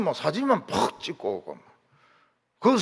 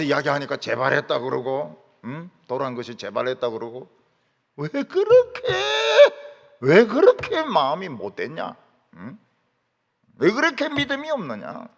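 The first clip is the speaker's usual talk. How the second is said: rebuking. Retold or imitated. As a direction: demand why they are so hard-hearted. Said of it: "책망하시는 겁니다".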